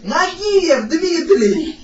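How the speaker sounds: every syllable drawn out; slow and deliberate. Real, not acted. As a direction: spell it out slowly for a deaf listener. Spelling name out to deaf granny. (очень медленно, по слогам)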